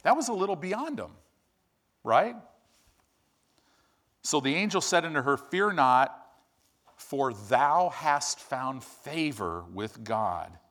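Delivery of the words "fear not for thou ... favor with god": slow solemn KJV reading, Fear not lifted; solemn slow scripture voice. Acted. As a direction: read it out like holy writ, drawing each word out. Reading the angel's words.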